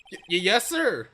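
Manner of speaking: put-on a rattled young officer caught out by his boss; flustered goofy cop. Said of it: "Let me try and find a voice for him".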